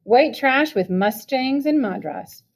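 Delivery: slow, seething trembling insult; shaking with rage. Acted. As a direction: drag each word out in rage. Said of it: "my voice shaking with rage".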